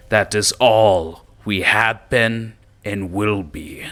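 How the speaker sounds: rally the goblins like their brutish king; Goblin King speech. Acted. Goblin King addressing his goblin followers, proudly. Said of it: "ogre-like creature start off by saying".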